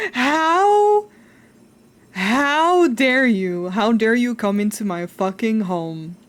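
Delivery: slow, loud, hammed-up indignation; loud theatrical how dare you; mock outrage. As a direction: play up being offended, laughing.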